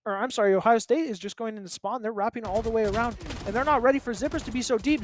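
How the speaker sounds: quick, lively esports commentary; excited caster following the play. Real, not acted. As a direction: call the action with rising excitement. Live play-by-play picks up.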